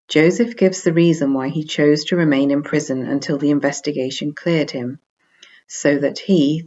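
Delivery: loud, emphatic scripture reading; loud solemn reading. Acted. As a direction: declaim the verses to the whole hall. Reads Quran translation, then explains.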